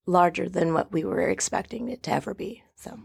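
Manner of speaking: voice giving out. Real, not acted. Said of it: "I'm losing my voice".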